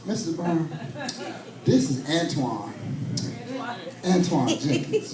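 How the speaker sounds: lightly voiced polite caller, slow and low; a hint of a fussy debt collector, drawn out; mild imitation of collector. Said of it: "I can hear it, in his voice".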